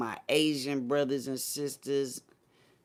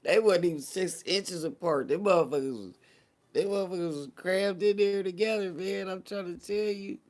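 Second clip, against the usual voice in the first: incredulous rant; 8 semitones higher, 4 dB louder than usual. Real, not acted. Incredulous rant about packed rally.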